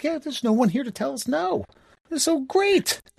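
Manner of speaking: high, acted-out chatter through giggles. Retelling friends sitting together on a class trip, imitating giggling while talking. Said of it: "all of us sitting there giggling".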